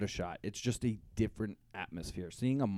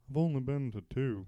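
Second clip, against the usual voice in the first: comic vampire-style Transylvanian accent; 2 semitones higher than usual. Shown as a demonstration. Answering the host's concert question on request, Transylvanian accent. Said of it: "why don't you do your accent now".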